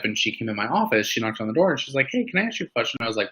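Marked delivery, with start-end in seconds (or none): 2.1-3.0 higher, softer questioning voice; lightly acted, high tentative question; retold polite request. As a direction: imitate a visitor asking softly, pitched up. Retold visitor at the office door.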